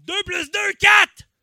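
left brain. Acted. Comic playing the rational left brain, answer shouted. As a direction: burst into a high, loud shout on QUATRE. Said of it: "t'as le cerveau gauche qui est comme".

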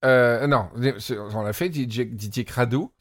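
talking while sucking a candy; candy in the mouth while speaking; eating candy. Real, not acted. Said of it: "Excusez-moi, je mange des bonbons, mais ça va trop s'entendre".

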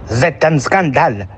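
mock German accent. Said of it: "Je pense que tu le tiens".

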